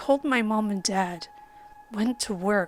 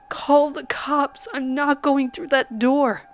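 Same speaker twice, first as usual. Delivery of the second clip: retold scream; 4 semitones higher, 4 dB louder than usual. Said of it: "I screamed".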